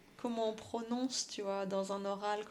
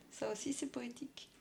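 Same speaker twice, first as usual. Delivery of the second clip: whispering; 6 dB quieter than usual. Real, not acted. Whispered aside.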